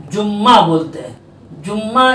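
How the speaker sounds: जुम्मा with doubled m, the common error; wrong jumma. Shown as a demonstration. Teacher imitating people's wrong जुम्मा. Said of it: "ये गलत है।".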